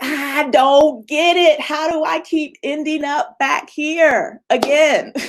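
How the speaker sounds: frustrated. Pretend. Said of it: "like, frustrated".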